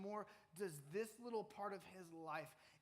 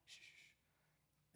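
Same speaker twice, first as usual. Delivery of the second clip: softer, slow whispered shushing; frantic hushing; 18 dB quieter, much slower than usual. Acted. Peter desperately shushes the girl in a whisper. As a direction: hush her quietly so no one hears.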